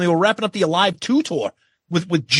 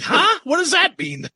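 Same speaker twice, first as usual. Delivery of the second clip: put-on confused kids; 11 semitones higher than usual. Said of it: "the fucking kids are like".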